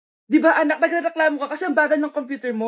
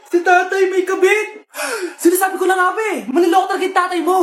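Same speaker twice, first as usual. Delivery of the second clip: angry shouting. Acted. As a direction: rant it in outrage. Family confrontation over affair.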